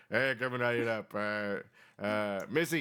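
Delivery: put-on old man voice. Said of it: "He's like".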